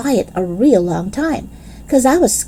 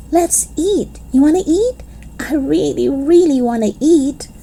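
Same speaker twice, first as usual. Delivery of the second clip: eager begging; 6 semitones higher than usual. Acted. Child begging friends to eat.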